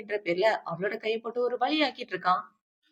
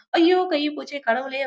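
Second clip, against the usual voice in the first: higher, drawn-out cry of pain; mock wail; 5 semitones higher, 4 dB louder, slower than usual. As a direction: wail slowly, as retold agony. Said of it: "அப்படின்னு இவ கத்திட்டு இருக்க". (வலியில் கத்துவது போல)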